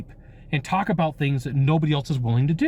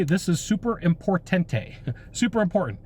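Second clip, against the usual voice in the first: playful super importante; 3 semitones higher than usual. Shown as a demonstration. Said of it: "you can come across and say".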